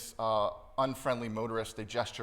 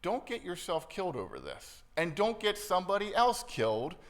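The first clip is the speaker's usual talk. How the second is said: God's admonition; 5 semitones higher than usual. Acted. God warning an angry driver, earnest admonition slowing at the end. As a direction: voice a firm plea that slows right down at the close. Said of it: "He'd tell you".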